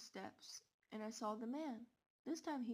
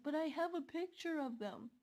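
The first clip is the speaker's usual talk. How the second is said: higher, louder urgent insistence; desperate protest; 5 semitones higher, 5 dB louder than usual. Retold or imitated. Girl pleads with police, insisting she has proof. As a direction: push the proof at them.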